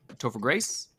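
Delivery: Topher Grace with a rising, questioning tune at the end; an unsure rising Topher Grace. Real, not acted. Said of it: "I said it like a question".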